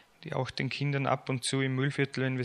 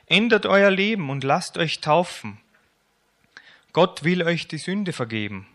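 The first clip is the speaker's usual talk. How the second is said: hoch und laut gerufen; lauter Ruf; 5 semitones higher, 4 dB louder than usual. Acted. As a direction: ruf die Menge zur Umkehr auf. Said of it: "rief Johannes". (Johannes ruft der Menge laut zu)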